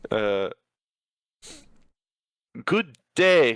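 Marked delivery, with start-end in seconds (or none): 2.6-3.5 high, loud mock-genteel greeting; a touch of a grand shopkeeper; merchant greeting. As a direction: doff a hat and sing out good day. GM voices the scarecrow merchant.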